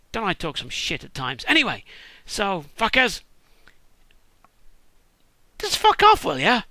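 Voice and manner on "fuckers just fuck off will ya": very high, loud exasperated shout; real annoyed yell. Real, not acted. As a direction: bellow it out at the noise. Yelling at sirens again.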